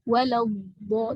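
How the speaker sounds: don't stop between "Walau" and "bo"; continuous voiced hold. Shown as a demonstration. Teacher telling students not to stop, continuous voiced hold. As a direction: carry sound from the end of "Walau" into "bo". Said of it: "jangan berhenti".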